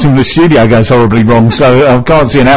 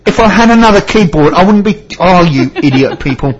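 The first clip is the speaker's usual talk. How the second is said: exasperated retort; 8 semitones higher than usual. Retold or imitated. Customer retelling a useless tech support call, exasperated. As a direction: act out losing patience, pitch jumping up then easing.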